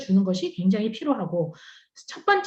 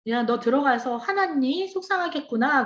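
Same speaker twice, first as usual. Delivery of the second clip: empathetic mom. Retold or imitated. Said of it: "수용적이고 공감해주는 엄마면".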